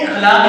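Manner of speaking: اخلاق as ikh-laaq; common mispronunciation. Shown as a demonstration. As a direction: start اخلاق with a short i. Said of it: "لفظ اخلاق نہیں ہے".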